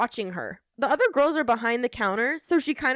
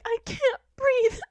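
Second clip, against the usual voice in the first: put-on winded girl; 11 semitones higher, slower than usual. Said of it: "she's like".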